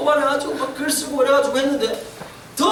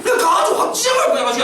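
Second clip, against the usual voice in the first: higher, half-joking furious outburst; mock angry threat; 5 semitones higher than usual. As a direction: pretend to rage at the kids who teased her. Father angry at bullies.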